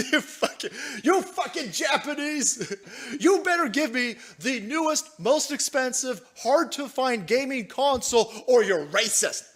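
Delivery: lightly voiced spoiled streamer; mock entitled streamer.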